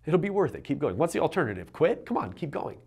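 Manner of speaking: a hint of a tender inner coach; gentle encouragement. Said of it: "I changed it to".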